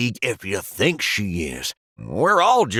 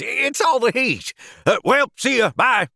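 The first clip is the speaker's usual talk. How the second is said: flustered goodbye; 10 semitones higher than usual. Acted. Flustered hurried exit.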